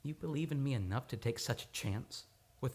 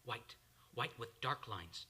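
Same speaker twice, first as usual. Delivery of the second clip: dazed murmur; 5 semitones lower, 7 dB quieter than usual. Acted. Man in trance on ski run.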